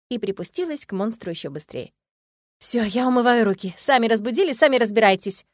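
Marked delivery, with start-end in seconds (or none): 2.6-5.4 grumbling. Acted. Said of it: "ворчливо проговорила Иветта".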